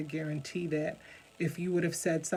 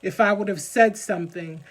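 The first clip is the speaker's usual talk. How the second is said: real emotion pushing the voice louder; emotional; 5 dB louder than usual. Real, not acted. Speaker apologizing for getting so emotional about childhood blame, emotional. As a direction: speak with heartfelt, insistent force. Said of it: "I'm sorry if I get so emotional about it".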